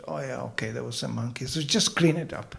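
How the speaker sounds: a hint of a weary British officer; calm English boss. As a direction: shrug it off as the boss. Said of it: "the Englishman said".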